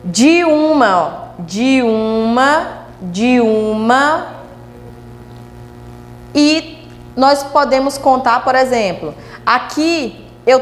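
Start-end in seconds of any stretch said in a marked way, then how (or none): 0.0-4.3 "De uma" slowly glided as one unit; slow demonstration of joined "de uma"; sounds run together. Shown as a demonstration. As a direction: draw out "de uma", linking "de" into the "u". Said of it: "um complementa o som do outro".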